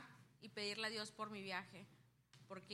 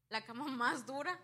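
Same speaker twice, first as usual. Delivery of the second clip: louder, stressing más; emphatic; 4 semitones higher, 7 dB louder than usual. Real, not acted. Telling the church about the hardest bed, emphatic. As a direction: hit más hard and loud.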